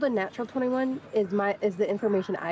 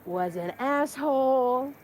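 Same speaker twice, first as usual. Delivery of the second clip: slow deadpan reading; 2 semitones higher, slower than usual. Retold or imitated. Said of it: "She's using Six's fucking forearm".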